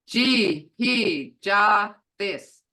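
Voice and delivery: each syllable said apart, loud. Shown as a demonstration. Teacher sounding out a word for the class, slow and syllable by syllable. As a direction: sound it out slowly, one piece at a time. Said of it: "Look here".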